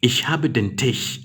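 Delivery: slowed, stress on "habe"; slow repeat. Shown as a demonstration. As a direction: repeat the sentence slowly. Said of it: "Tisch should be capital T".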